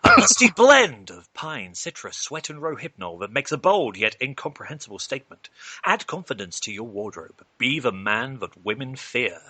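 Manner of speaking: slow, breathy-sold luxury ad read; sultry perfume ad. Acted. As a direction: sell it like a late-night cologne commercial. Mock fragrance ad read.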